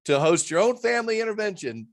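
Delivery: chuckling through the book plug; laughing at his own plug. Real, not acted. Guest laughs while plugging his own book, laughing.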